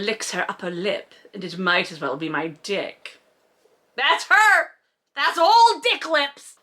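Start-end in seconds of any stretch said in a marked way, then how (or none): 4.0-6.5 mocking exclamation. Real, not acted. Reader jeering at the book's silly phrase, gleeful. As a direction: crow at the silly line like spotting a villain.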